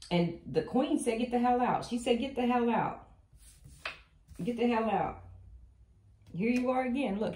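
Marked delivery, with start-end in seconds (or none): 1.2-1.8 mock angry queen, higher and louder; pissed-off queen. Tarot reader voicing the Queen ordering someone out, angry. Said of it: "The Queen's pissed". 2.2-5.2 higher-pitched mock anger of a queen; pissed-off queen. Tarot reader voicing the Queen evicting a lover, mock angry. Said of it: "The Queen's pissed".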